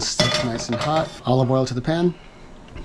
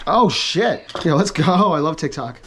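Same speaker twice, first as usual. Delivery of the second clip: excited surprise; 2 semitones higher than usual. Real, not acted. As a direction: cheer as the jar pops. Jar finally opens.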